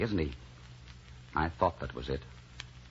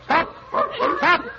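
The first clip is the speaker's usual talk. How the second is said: loud, high halting call; 6 dB louder than usual. Acted. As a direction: shout the animal to a stop. Calling a running animal to halt.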